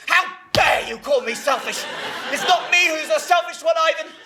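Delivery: offended retort, rising as it goes; indignant. Acted. Mother rejecting the charge of selfishness, indignant. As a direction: throw the charge back, outraged.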